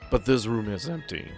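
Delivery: ordinary delivery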